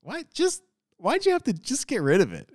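high, soft, baffled whine; puzzled head tilt. Acted. Viewer distracted by the harsh accent, high puzzled complaint. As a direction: act out a confused dog's head-tilt reaction. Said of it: "dog head tilt thing. Where you're like".

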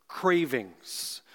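"cravings" leaned on, slow with a falling tune; stress on cravings. Shown as a demonstration. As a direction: dwell on "cravings" and let it fall. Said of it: "Emphasis on that word".

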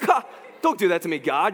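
half-laughing mock plea; laughing protest. To God after reading the Bible, laughing mock protest. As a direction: laugh it off like the verse caught you. Pretend reaction to scripture.

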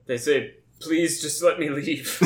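lightly voiced stern professor; a hint of a fussy academic. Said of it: "my professor voice".

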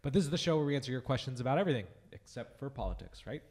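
sick, scratchy under-the-weather voice; raspy voice. Real, not acted. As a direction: talk through a sore throat. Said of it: "sorry about the raspy voice".

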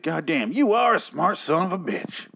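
mock tough-guy praise, pitched high; swaggering admiration. Reviewer acts out Negan praising Eugene, swaggering and high. Acting out Negan's impressed swearing.

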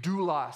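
"doulos" said DOO-los, stress on the first syllable, falling; Greek word doulos. Shown as a demonstration. Preacher teaches the congregation to say "doulos", stressed DOO-los. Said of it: "Everybody say doulos".

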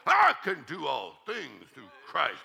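slow, firm, confident; bold declaration. Shown as a demonstration. Preacher showing the church how to say it boldly. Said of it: "Get a little boldness in your voice".

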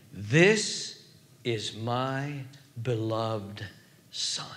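low, soft and halting, word by word; hushed, reverent divine pronouncement; voice of God. Acted. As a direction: leave a pause after each phrase. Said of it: "The voice of God speaks".

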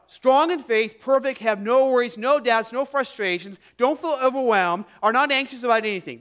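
mock the false version of the verse; mocking misquote. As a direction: ironic preacher's overblown misreading. That's not what Jesus says.

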